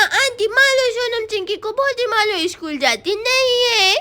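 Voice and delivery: tattle to the grown-ups with a sulky whine; whiny tattletale boy. Acted. Little Shyam tells the mothers to punish the girls, whining.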